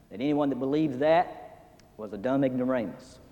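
whispered mock of the professor; scornful aside. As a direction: hush it like a sneer.

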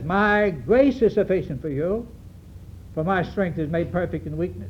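measured, mildly emphatic quoting of God's assurance; calm emphasis. Retold or imitated. Preacher quoting God's answer to Paul, calmly emphatic. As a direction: stress GRACE in "My grace is sufficient for you", then ease down. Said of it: "calmly, shall I say, very emphatically".

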